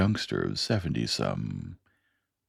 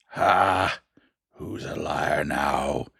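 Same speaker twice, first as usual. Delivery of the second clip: mild mock shout; much slower than usual. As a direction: throw it at the room as a gotcha. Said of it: "Clem Zarev shouted".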